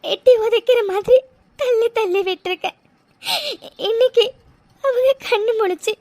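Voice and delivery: crying, pleading prayer; tearful prayer. Acted. Mega praying to God for her mother, crying. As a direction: beg God through tears.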